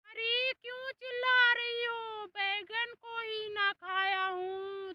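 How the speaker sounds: acted, mildly indignant comeback; annoyed retort. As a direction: push back loudly at an accuser, acting irritated. Buffalo snaps back at accusation.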